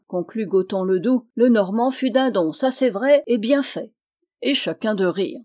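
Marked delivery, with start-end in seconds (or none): 1.3-3.9 plus haut et fort, moqueuse; moquerie ravie. Acted. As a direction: savoure la chute du Normand. Commère moqueuse. (la commère se moque du Normand, ravie)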